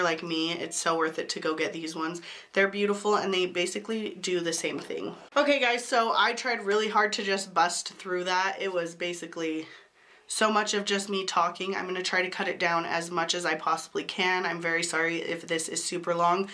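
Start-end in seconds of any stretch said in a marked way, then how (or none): 5.4-16.5 talking with a cold; sick voice. Real, not acted. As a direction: voice worn down by being sick. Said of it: "my annoying sick voice".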